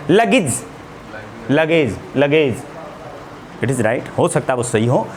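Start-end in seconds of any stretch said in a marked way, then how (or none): 0.1-2.6 लगेज said as "lagej", slow and drawn out; correct luggage. Shown as a demonstration. Teacher shows the students the right way to say लगेज, slowly. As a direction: model लगेज slowly so students can copy it. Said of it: "right pronunciation लगेज".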